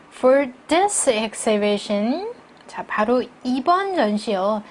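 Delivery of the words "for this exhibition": "this" hit harder than "exhibition"; slow model reading, weight on "this"; stress on this. Shown as a demonstration. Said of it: "이번을 더 강조할게요". ("this"를 더 강조해서 천천히)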